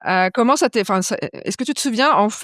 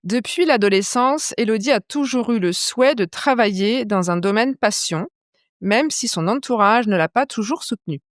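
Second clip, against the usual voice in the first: présente l'invitée comme une voix off; présentation de podcast; 2 semitones higher than usual. Acted. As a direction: lecture posée d'une intro de portrait, un peu plus lente. Podcast intro read. (lecture d'introduction posée)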